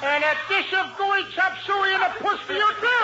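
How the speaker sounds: high-pitched sing-song comeback; mimicking retort. Costello answering the lady's mock Chinese farewell, mimicking. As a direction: toss the silly farewell back in a high voice.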